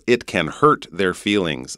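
North American "hurt" with a clear R; North American accent. Shown as a demonstration. Teacher contrasting R sounds, North American accent. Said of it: "you can hear in the North American accent".

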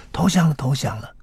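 high-pitched joyful cry, mock shout; retold high shout. Barefoot reporter runs upstairs shouting, high joyful cry. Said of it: "一直高喊".

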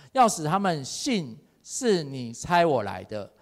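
dramatic Bible reading, rising in force; scripture reading. Acted. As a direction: read the passage with growing drama. Preacher reads the Lazarus passage. (越读越有感情的经文朗读)

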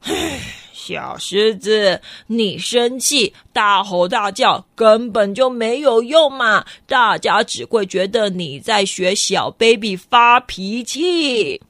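slow, low, scolding rhino; a big rhino lecturing the little lion; the rhino tells the lion off for throwing a baby tantrum. Acted. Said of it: "犀牛就这样子".

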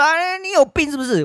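high, mocking imitation of others; mocking quote. Imitating the people who called him sick, high mockery. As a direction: squeak it back at them in a high, mocking voice. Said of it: "你们说".

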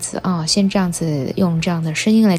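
talking around a dental retainer; words shaped by a retainer in the mouth; speaking with retainer. Real, not acted. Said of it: "用这样的声音来跟大家聊聊天".

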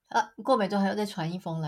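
ordinary talk

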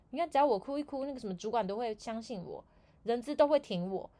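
a lighter second take of the brag; repeated smug quote. Retold or imitated. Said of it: "他跟我们有一个部门的同事说".

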